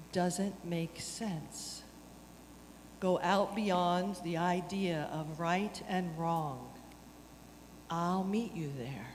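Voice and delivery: poem reading. Acted. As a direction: read it gently, like a poem.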